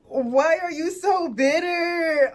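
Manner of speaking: slow, pained disbelief; exasperated. Real, not acted. Asking her date in slow disbelief why he is bitter. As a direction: plead why he is so sour.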